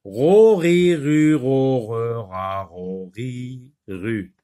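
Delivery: syllables run together in one quick chain; quick drill that falls away in pitch and volume; very fast reading. Shown as a demonstration. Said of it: "On recommence très vite".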